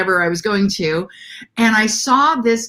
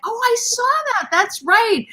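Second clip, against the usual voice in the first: surprised recognition. Retold or imitated. Realizing she saw the wagon.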